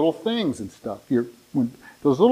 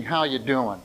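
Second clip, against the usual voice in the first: softer, truthful check-in; sincere asking; 4 dB quieter than usual. Shown as a demonstration. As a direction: ask it as if you truly want to know. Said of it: "Truthfully asking".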